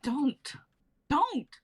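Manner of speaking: from a warning to a high sharp cry; building cry. Acted. Rose pushes Daniel away.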